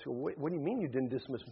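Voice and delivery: hurried, stammering mild alarm; a little panic. Acted. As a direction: stumble through it, slightly rattled. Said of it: "getting a little panic in your voice".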